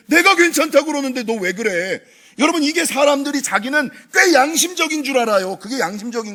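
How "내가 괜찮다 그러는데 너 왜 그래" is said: higher, firm scolding; God scolding a guilty believer; God's rebuke. Retold or imitated. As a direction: demand why they doubt.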